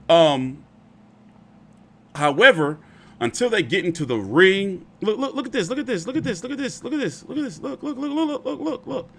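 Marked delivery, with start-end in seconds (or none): 5.0-9.1 very high squealing laughter through the words; cracking up at the clip; high-pitched giggling repeats; laughing disbelief. Real, not acted. Laughing at the screen.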